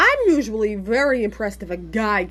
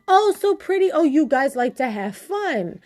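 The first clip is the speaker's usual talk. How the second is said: imitating a Spanish accent; 4 semitones higher than usual. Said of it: "didn't speak a whole lot of English".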